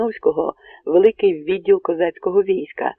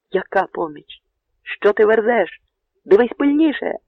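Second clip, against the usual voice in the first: rising disbelief; 4 semitones higher, 4 dB louder than usual. Acted. Bohun snapping at the sentry.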